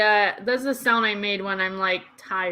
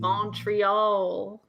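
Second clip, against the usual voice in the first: mock Australian, rising at the end; playful Australian drawn-out echo; Australian accent; 4 dB quieter than usual. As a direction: echo it in a put-on Aussie accent. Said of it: "Is that a good Australian accent".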